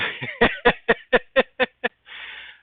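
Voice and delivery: breathy high-pitched laugh. Real, not acted. Streamer laughing before thanking his friend Steve, breathy high laugh.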